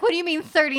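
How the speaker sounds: high, loud disbelieving cry; can't believe what she just heard; shocked question. Retold or imitated. Speaker answers sister in loud disbelief.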